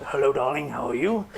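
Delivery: a hint of a crooning seducer; seductive voice. Shown as a demonstration. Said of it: "a self-disclosure kind of seductive voice".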